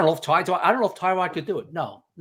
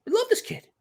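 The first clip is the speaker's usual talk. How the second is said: sincere quote. Retold or imitated. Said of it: "a hundred percent sincere".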